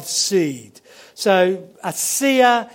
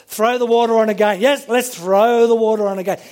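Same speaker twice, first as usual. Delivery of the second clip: brisk, careless and cocky, fast; mock-arrogant prophet ordering more water; 2 semitones higher, faster than usual. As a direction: toss it off like water costs nothing. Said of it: "it's incredibly arrogant".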